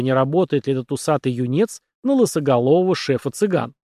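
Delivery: plain reading voice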